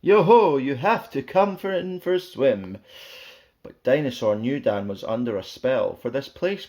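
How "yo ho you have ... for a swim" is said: high, loud sing-song call; loud beckoning yo-ho. Acted. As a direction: call him into the water. Danny calls Dinosaur to swim.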